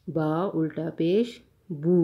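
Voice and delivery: "بو" as a long oo, set apart; long waw ending. Shown as a demonstration. Teacher showing students ulta pesh, long waw ending. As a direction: spell it out, then a firm long "بو". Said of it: "آخر میں اس میں واو کی آواز سنائی دے گی".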